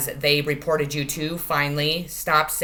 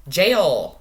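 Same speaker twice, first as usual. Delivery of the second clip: emphatic card call; 7 dB louder than usual. Real, not acted. Card read out forcefully.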